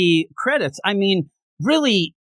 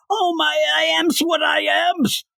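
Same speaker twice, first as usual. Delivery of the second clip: Cyborg voice; 10 semitones higher than usual. Retold or imitated. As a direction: ham it up as a dopey Cyborg. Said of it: "I'm Cyborg".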